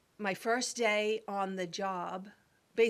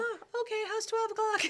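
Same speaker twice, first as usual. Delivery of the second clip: much higher, bursting with eagerness; eager excitement; 14 semitones higher, 4 dB louder than usual. Retold or imitated. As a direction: jump at the chance, thrilled. Her own eager reply, retold.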